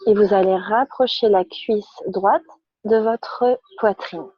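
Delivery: calm, measured yoga-class instruction; unhurried guidance with pauses between phrases; guided relaxation. Real, not acted. Yoga teacher guides students lying on their backs, calm guided relaxation.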